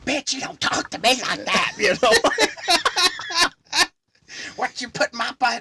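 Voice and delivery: high, loud furious tirade; furious rant. Retold or imitated. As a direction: tear into her in the store. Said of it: "He goes".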